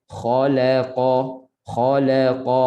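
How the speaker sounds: slow "Khalaqa", a thin la between heavy kha and qa. Shown as a demonstration. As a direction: keep the la of "Khalaqa" light. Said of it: "la nipis". ("Khalaqa" dengan la nipis)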